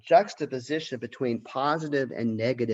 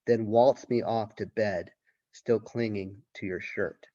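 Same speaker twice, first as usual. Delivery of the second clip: poem reading; 3 semitones lower than usual. Acted. Teacher reads poem aloud.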